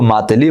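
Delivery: Muhammad Ali run together as "ماتلی"; mangled name. Retold or imitated. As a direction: say "ماتلی", dropping the opening syllable. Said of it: "ناموں کو خراب کر کے". (بگاڑ کر "ماتلی")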